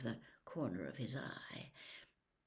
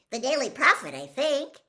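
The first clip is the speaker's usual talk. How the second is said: put-on much higher, louder breathless boy; excited gush; 9 semitones higher, 11 dB louder than usual. Starstruck boy gushing at Harry, excited and high. Colin voiced.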